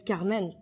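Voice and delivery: "Carmen" with a French R; "Carmen" said the French way, kar-MEN; French pronunciation. Shown as a demonstration. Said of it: "say the French version of".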